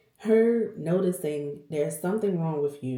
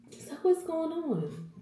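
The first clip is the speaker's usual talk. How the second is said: gentle supervisor; 12 semitones higher, slower than usual. Retold or imitated. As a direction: ease her into talking, kindly. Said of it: "she was like".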